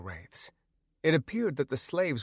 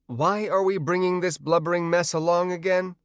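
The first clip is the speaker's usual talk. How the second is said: disdainful; 7 semitones higher, 3 dB louder than usual. A narrator's reading. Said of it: "Trinity asked with disdain".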